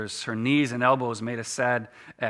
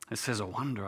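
breathed in awe, much softer; hushed wonder to yourself; soft amazed murmur; 7 dB quieter than usual. Acted. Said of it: "I breathed to myself".

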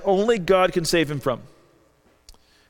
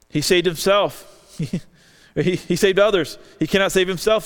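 mocking. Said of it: "Mocking him".

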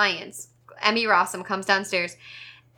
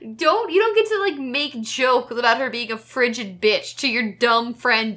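mad, emphatic scolding; heated ranting reprimand; indignant rant. Real, not acted. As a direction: tell him off, jumping up in pitch at the start. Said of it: "I got so mad at that".

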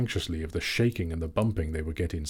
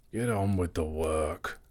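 mild growl; 2 semitones lower, slower than usual. Acted. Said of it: "growled the butler".

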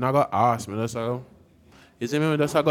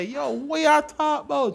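mock fat guy; 11 semitones higher than usual. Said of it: "you're fat and you say".

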